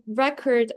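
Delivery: RECord with the weight on the first syllable; first-syllable stress. Shown as a demonstration. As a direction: stress "record" on REC, as the noun. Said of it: "stressing the word, like, the parts of the word".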